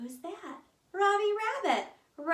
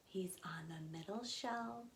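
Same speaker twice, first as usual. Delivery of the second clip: whispered hint; 5 semitones lower, 16 dB quieter than usual. Acted.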